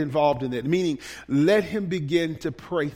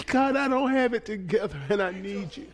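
a touch of pleading confession; acted prayer; 6 semitones higher than usual. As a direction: admit need to God, plainly. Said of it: "people who say".

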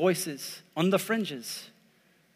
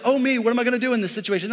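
mock fretting; much faster than usual. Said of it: "He doesn't say like".

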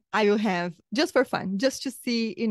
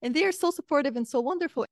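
higher, delighted gushing; replaying a joyful surprise, pitched up; retold delight; 7 semitones higher than usual. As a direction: gush happily over friends back home. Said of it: "And I was like".

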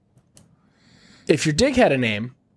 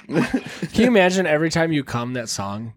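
ordinary talk, nothing marked

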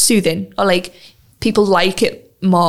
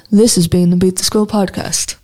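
low announcer voice; deep radio voice. Shown as a demonstration. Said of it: "Just trying to see how low I can get my voice".

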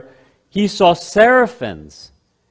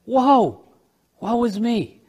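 high, slow wail of despair; anguished cry; 6 semitones higher, slower than usual. Acted. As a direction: cry out undone before the throne. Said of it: "all he has left to do is to stay there and say".

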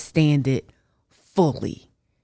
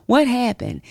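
1 spooked whisper; 9 semitones higher, 3 dB louder, faster than usual. Retold or imitated. Startled by voice in car.

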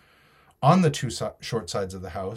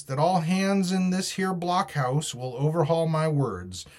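higher, carrying address to all; raised voice; 6 semitones higher than usual. A narrator's reading. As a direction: lift the pitch to reach the whole room. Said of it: "raising his voice".

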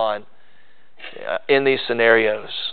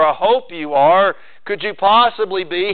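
unsure, hoping question rising at the end; doubtful hope; 4 semitones higher than usual. Shown as a demonstration. Preacher showing a timid, unsure prayer, hesitant. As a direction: ask it like you're not sure He will. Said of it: "Not that".

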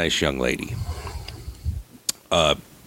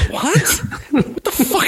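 shocked son; slower than usual. Retold or imitated. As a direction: caught completely off guard. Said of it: "I'm like".

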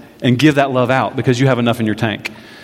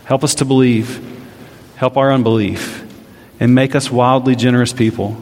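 closing prayer. Real, not acted. Pastor leads closing prayer.

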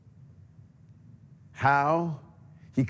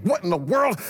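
surprised; 5 semitones higher than usual. Acted. Waking to find family downstairs.

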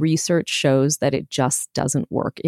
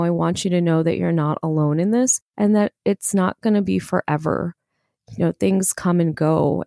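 compassionate inner voice. Shown as a demonstration. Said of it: "my voice of compassion".

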